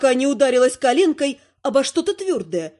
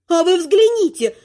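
raised, angry growl; growling in fury; 4 semitones higher, 4 dB louder than usual. Acted. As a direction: growl it out, indignant. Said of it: "рычу я". (рычит от возмущения)

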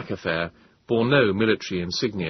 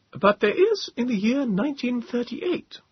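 higher whispered reply from the captain; Captain Bond in a higher whisper. A narrator's reading.

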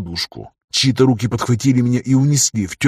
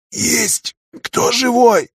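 faint rasping call into the dark; weak hoarse call; 12 semitones higher, much slower than usual. A narrator's reading. Wounded man calls weakly from his cot. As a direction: call out weakly, throat dry. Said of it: "позвал я слабым хриплым голосом".

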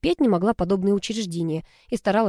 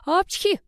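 sharp sneeze, much higher; 12 semitones higher than usual. A narrator's reading. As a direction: sneeze mid-sentence. Character sneezes. (чихнуть)

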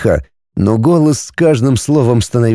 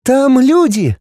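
put-on high, excited child exclaiming; boy shows parents the screen, joyful; joyful boy's cry; 13 semitones higher, slower than usual. A narrator's reading. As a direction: shout it out with delight. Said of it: "радостно воскликнул мальчик".

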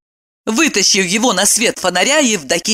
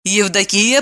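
usual speaking voice

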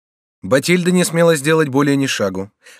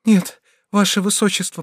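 usual speaking voice

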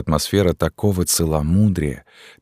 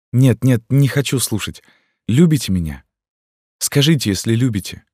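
put-on higher, teasing young girl voice; playful pleading girl; 7 semitones higher than usual. Gypsy girl teasing the captain, higher playful voice. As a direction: push him away with a laugh in the voice.

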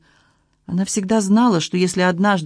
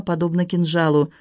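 plain reading voice

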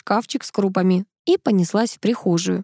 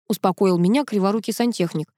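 ordinary delivery

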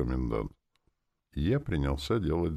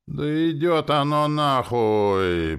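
high, loud, very slow yawned words; drawn-out yawn; 12 semitones higher, 7 dB louder, much slower than usual. A narrator's reading. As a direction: stretch the words through a big yawn. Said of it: "протяжно зевнула Настя".

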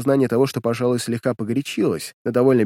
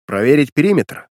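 command; 2 semitones higher, 5 dB louder than usual. Acted. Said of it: "начал раздавать он указания".

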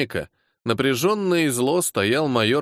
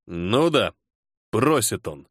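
dry mocking aside, lower; ironic; 4 semitones lower, slower than usual. A narrator's reading. Colonel mocks the major's polite request, ironic. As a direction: lightly sneer at the word просит. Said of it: "с иронией сказал полковник".

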